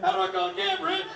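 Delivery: high, lost and helpless mock whine; panicked Rob. Lost friend calling Rich, high helpless whine. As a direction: pitch it up like a lost drunk friend.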